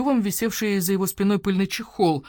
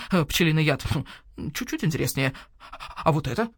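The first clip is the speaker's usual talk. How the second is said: owl shopkeeper voice. Acted. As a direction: voice the grumpy owl merchant. Owl appraising goods.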